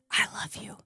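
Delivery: soft whispered secret. Retold or imitated. Aunt whispering a secret to her little niece, hushed. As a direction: breathe it into a child's ear. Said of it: "I'd whisper in her ear".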